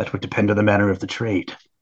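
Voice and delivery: low, quick, secretive, conspiratorial tone. Retelling a trade offer made to a guy who loves deals: retold lowered secret-y voice. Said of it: "And now I'm like lowering my voice".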